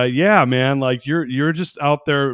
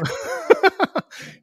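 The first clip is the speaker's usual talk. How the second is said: laughter; 3 dB louder than usual. Real, not acted. Reacting to the accent intro.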